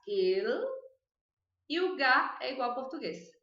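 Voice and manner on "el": "El" with the L pulled back in the mouth; slow, careful dark L in "El". Shown as a demonstration. Teacher isolating the L sound for students. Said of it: "O L vai pra trás".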